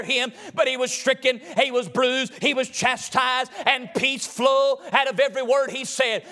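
chanted, musical preaching at full force. Acted. Preacher telling the congregation about Magdalene, sung and rhythmic. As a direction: whoop the story of Mary like a revival sermon. Whooping sermon over organ music.

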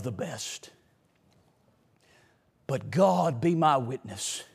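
hushed closing appeal from the pulpit; intimate preaching. Acted. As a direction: draw the congregation in close and quiet. Preacher drops to an intimate close.

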